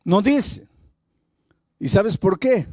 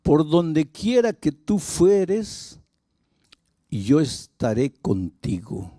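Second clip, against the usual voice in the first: God's promise; 2 semitones lower, much slower than usual. Acted. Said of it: "la promesa de Dios a Abraham fue".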